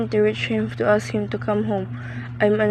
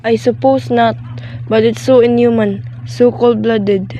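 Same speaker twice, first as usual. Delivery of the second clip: upset plea; 5 dB louder than usual. Acted. Distressed invalid pleading with policeman.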